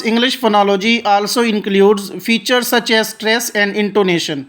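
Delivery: reads each English word slowly and deliberately; slow textbook reading. Shown as a demonstration. Teacher reading the definition aloud to students, slow and deliberate. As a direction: read it out like a careful textbook recitation.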